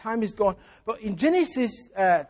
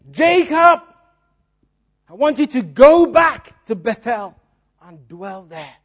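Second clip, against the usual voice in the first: God calling Jacob; 8 dB louder than usual. Retold or imitated. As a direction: call out his name from afar. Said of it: "And God says to him".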